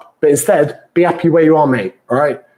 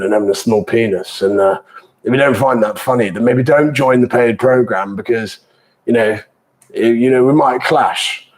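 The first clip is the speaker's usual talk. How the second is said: Boris Johnson impression. Coach jokes about British banter as Boris Johnson, lightly impersonated. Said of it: "That was my Boris Johnson impression".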